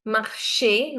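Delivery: marché with a long "ay" ending; flat A sound. Shown as a demonstration. Teacher contrasting accents, marché ending in flat A. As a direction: hold the final E of marché as A. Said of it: "it's not a flat sound like".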